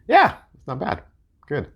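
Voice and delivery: a hushed whispered verdict. Real, not acted. Judging the deck for viewers, whispered approval. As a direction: breathe it out as a whisper.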